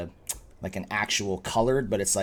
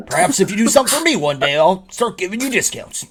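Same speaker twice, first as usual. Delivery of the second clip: high, loud innkeeper voice with amusement; bargaining innkeeper; 12 semitones higher, 11 dB louder than usual. Acted. Innkeeper bargaining with a customer over favours, high and polite. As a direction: play the innkeeper offering terms, pitched up.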